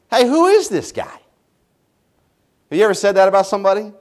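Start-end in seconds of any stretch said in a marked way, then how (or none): 0.1-1.2 incredulous. Retold or imitated. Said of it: "he's saying".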